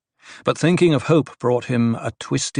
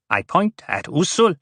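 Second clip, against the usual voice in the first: higher, mildly squeaky voice; squeaking protest; 7 semitones higher than usual. A narrator's reading. The dwarf points at his new master, squeaking. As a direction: let the pitch jump up in protest. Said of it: "voice squeaking".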